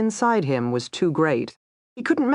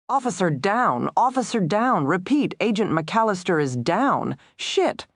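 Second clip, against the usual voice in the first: urgent alarm; 5 semitones higher than usual. Acted. Officer down call.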